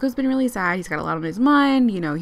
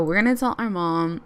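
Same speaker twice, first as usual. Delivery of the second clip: normal talking voice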